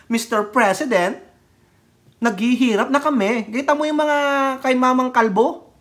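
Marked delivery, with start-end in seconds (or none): 0.1-3.5 exaggerated imitation of a protester's plea; mock protest shout. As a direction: mimic pleading slogans without really shouting. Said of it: "Tapos sisigaw kayo".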